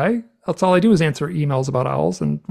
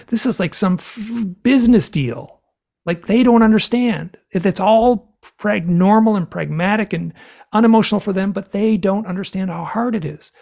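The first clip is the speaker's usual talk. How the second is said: acted-out outburst, higher and louder; exasperated swearing rant; 6 semitones higher, 4 dB louder than usual. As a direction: vent loudly, stopping short of the swearword. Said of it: "I was swearing so much".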